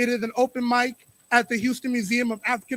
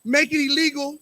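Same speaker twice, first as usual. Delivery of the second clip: rhythmic slam poetry delivery; spoken word poetry; 3 semitones higher than usual. Acted. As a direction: perform it like a slam poem. Performs spoken word poem.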